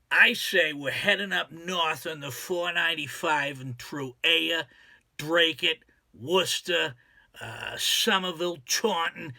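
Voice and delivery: local Massachusetts accent on the place names; Boston accent. Shown as a demonstration. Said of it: "this is how we sound up".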